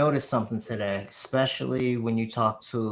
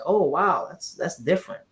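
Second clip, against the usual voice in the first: higher-pitched, impressed wow; retold pleasant surprise, pitched up; surprised; 6 semitones higher than usual. Co-host recalls hearing the calls, surprised. Retelling own surprised reaction.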